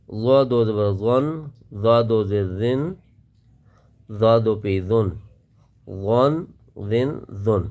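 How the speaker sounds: زا read thin and light; teacher drills the thin زا. Shown as a demonstration. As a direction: say زن with a fine, thin sound. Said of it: "اس کو باریک آواز کے ساتھ پڑھیں گے".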